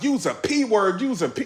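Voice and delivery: mildly heated mock tirade; over-the-top angry rant. Battle rapper berating his opponent, over the top. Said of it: "like, over the top".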